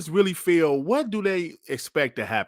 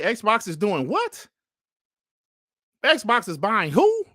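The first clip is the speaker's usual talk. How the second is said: slow incredulous disbelief; 4 semitones higher, slower than usual. Retold or imitated. Imagined incredulous past self.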